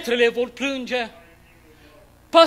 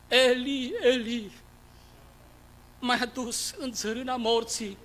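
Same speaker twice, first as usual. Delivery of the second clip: softer, a spent broken whisper of Eli; fading cry; 7 dB quieter than usual. Acted. Dying Jesus calling weakly to God, faint and spent. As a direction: let it die away, exhausted. Crucified Christ fades.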